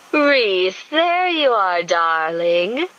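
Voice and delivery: a rival woman calling him sweetly; cooing woman. A narrator's reading. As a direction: coo his name from down the hall. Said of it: "a woman's voice cooed".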